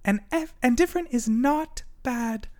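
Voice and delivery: high, fast little turtle; the turtle tells everyone different is fine. A narrator's reading. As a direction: say it high and quick like a tiny turtle. Turtle speaks.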